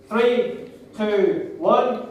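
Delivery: loud, high countdown; count down for a shout. Real, not acted. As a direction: build them up to the shout.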